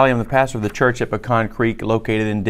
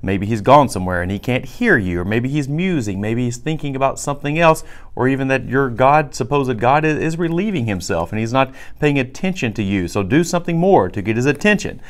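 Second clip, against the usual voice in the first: higher, quicker teasing taunt; mocking Elijah; 3 semitones higher than usual. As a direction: tease them like a scoffing prophet. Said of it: "Elijah makes fun of them".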